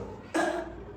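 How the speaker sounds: short dry cough. Retold or imitated. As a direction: clear the throat with a cough. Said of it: "I coughed".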